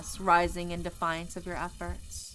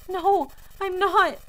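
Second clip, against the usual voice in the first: slow sobbing denial; 12 semitones higher, 9 dB louder, slower than usual. Acted. Tearful denial.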